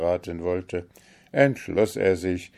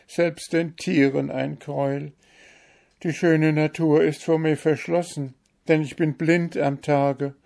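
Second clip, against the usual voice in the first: higher, sorrowful voice of the bewitched owl; lamenting owl princess; 7 semitones higher, 3 dB louder than usual. A narrator's reading. Owl princess tells the Kalif her sorrow, lamenting, pitched higher. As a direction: mourn your lonely life among ruins.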